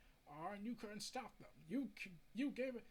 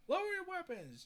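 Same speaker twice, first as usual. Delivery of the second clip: loud, higher shouted order; command; 11 semitones higher, 7 dB louder than usual. Retold or imitated. Officer stopping the police from firing, a loud high shout. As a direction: bark it at the armed officers.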